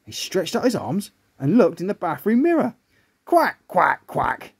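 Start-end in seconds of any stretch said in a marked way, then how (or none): 3.2-4.5 quick duck quacks, last one dropping; duck quacking. Acted. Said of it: "He sounded like a duck".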